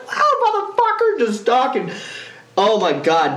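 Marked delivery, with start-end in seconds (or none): 0.1-1.2 excited yell. Retold or imitated. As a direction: shout in gleeful disbelief. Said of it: "so I'm freaking out".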